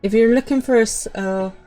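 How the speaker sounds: put-on failed Scottish accent. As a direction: feel your way through a bad Scottish accent. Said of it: "I can't do Scottish".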